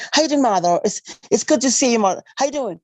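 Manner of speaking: friendly greeting in a put-on American accent; imitated American accent. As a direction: mimic Americanized children greeting their mother. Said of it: "they speak like Americans".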